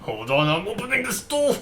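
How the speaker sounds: high, loud eager call; excited shout. Real, not acted. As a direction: burst out eagerly.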